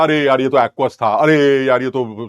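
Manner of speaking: drawn-out groaning regret, acted; mock dismay. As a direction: slowly lament a silly slip, hammed-up. Acts realising a careless mistake. (पछतावे की खींची हुई नकल)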